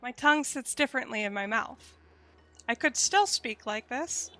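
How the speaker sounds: high nasal head voice; lifted childlike head voice. Shown as a demonstration. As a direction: pitch it up into the nose. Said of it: "I will demonstrate".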